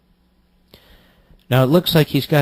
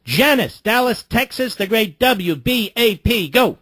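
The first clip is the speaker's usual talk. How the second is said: announcer intro; 9 semitones higher than usual. Real, not acted. Host introduces caller, radio announcer.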